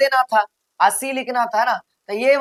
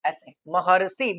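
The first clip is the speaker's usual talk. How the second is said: slow demo; 5 semitones lower, 7 dB quieter, slower than usual. Shown as a demonstration. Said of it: "कैसे लिखेंगे".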